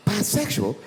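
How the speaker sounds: high squeal of mock panic; mock horrified. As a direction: shriek it like a scandalised gossip. Mock-horrified wife quote.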